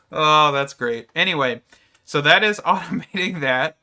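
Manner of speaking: laughing hard while talking; words breaking into laughter; laughing through pain. Real, not acted. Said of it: "oh, it hurts to laugh".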